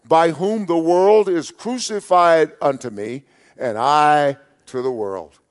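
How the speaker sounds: forceful, emphatic proclamation of a Bible verse; great emphasis. Acted. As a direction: declare it loudly and emphatically, pitch lifted. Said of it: "emphatically with, with great emphasis".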